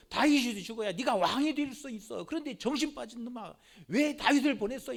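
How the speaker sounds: 좀 크게 꾸짖는 아버지 흉내; 아들을 다그치듯 나무라며; 버럭 화내는 왕. Retold or imitated. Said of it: "버럭같이 화를 낸 거예요". (아들 요나단을 꾸짖는 사울 왕, 성난 목소리)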